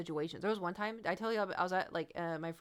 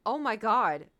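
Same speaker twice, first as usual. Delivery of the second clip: shocked; 3 semitones higher, 10 dB louder, slower than usual. Retold or imitated. Retelling her shocked reaction.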